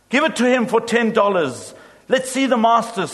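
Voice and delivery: impatient bidder shouting at the auctioneer. A narrator's reading. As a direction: toss it out to hurry them along. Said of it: "someone shouted".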